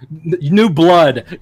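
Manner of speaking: slow and laughing through the words; can't finish for laughing. Real, not acted. Listing Hogan's catchphrases, laughing.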